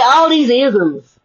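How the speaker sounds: drawn out, slow and weighty; slow down and lean on each word; slow emphatic. Real, not acted. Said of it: "slowing to stress isms".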